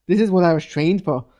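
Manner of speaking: put-on a clumsy, lightly done New Zealand accent, pitch a touch up; half-hearted New Zealand accent, quoting Omega; bad New Zealand accent. Mocking Omega's line about her training, weak New Zealand accent. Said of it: "That was the worst New Zealand accent ever".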